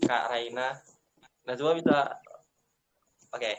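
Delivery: choppy call audio breaking up; bad connection. Real, not acted. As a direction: voice cutting in and out online. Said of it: "Suara kamu putus-putus".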